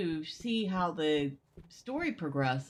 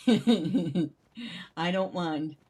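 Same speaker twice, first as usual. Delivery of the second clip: laughing; 5 dB louder, much slower than usual. Real, not acted. Laughs at chat's remark.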